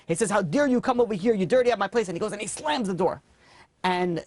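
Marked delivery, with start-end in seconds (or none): 0.3-2.1 higher, sharp, offended rebuke; indignant scolding. Acted. Rich man scolds the beggar at his door, indignant and raised. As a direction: tell him off for dirtying your doorstep.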